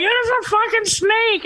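high-pitched retold scream about the snake. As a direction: shriek it like you just spotted a snake in the house. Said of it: "screaming at the top of our lungs".

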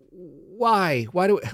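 high, pleading why; lightly acted bewildered complaint; mock exasperation. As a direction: retell it as a puzzled protest. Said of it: "And I go".

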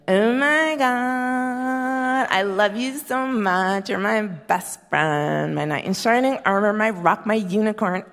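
slow, gushing lovesick read; a new wife gushing in a card, slow and swooning. Retold or imitated. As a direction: swoon over every word.

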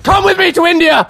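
put-on loud, high Indian accent shout. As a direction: call out in a hammy Indian accent. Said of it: "my Indian accent".

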